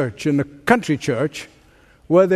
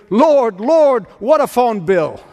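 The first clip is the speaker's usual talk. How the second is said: a treasurer's hammed-up cry over the phone bill; uncontrolled yell; 5 semitones higher, slower than usual. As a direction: blurt it out like you can't hold it in. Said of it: "he yelled uncontrollably".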